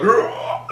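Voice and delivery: whispered laughing rah; mock creature growl, half laughed; imitated monster roar. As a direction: mimic the goo's noise breathily.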